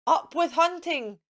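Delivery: a mild storybook shout; light mock shout. A narrator's reading. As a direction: bellow it like a greedy dinosaur. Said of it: "And they shouted".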